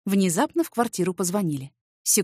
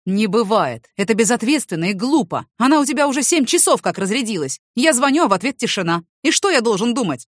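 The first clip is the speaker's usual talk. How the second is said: louder, flaring anger; boiling over; 2 semitones higher, 6 dB louder than usual. Acted. Man scolding his neighbour, angry and loud. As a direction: snap back hot and loud. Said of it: "Халк вдруг вскипел".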